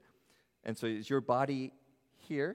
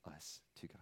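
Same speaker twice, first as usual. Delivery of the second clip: whisper; 6 semitones lower, 17 dB quieter than usual. Real, not acted. Trailing reverent whisper.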